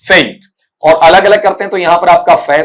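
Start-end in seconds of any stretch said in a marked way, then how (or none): 0.0-0.5 फेथ drawn out with a gliding ei vowel; teacher modelling the diphthong in फेथ; slow diphthong. Shown as a demonstration. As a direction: say फेथ slowly, glide the vowel. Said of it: "diphthong यहां पर ऐसा बनेगा".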